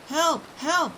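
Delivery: very high desperate yelps; yelling for help. A narrator's reading. Boy in the chocolate river yells for help, desperate. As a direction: yell for help while drowning. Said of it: "he yelled".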